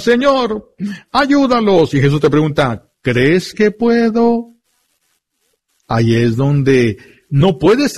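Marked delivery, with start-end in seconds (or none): 0.0-1.9 mock cry for help. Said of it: "Y tú gritas". 3.0-4.5 higher, slow question; slow it down, a high searching ask; Jesus asking. Acted. Jesús responde al padre.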